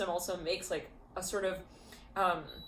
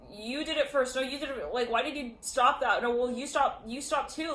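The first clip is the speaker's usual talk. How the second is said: higher, insistent tit-for-tat; lightly acted squabble; mock bickering; 5 semitones higher than usual. Soap opera pair blaming each other, mock bickering. Acting out a back-and-forth blame quarrel.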